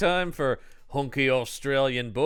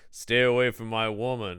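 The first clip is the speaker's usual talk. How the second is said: half-hearted; 3 semitones lower than usual. Retold or imitated. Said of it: "very half-heartedly".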